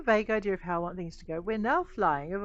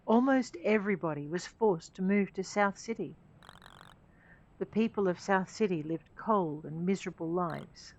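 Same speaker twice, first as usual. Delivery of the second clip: story narration. Acted. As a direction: tell it like a game intro.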